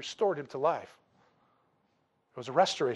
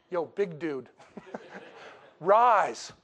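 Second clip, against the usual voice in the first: casual slang Jesus; much slower than usual. Pretend. Jesus retold in slang, laughing.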